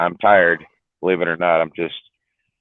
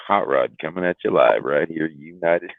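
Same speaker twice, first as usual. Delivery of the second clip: a touch of a lower late-night radio host; radio DJ hello voice; 3 semitones lower, 3 dB quieter than usual. Shown as a demonstration. Streamer demoing his radio hello voice, lightly lowered DJ intro. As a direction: announce yourself like an old radio DJ. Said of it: "my little hello voice".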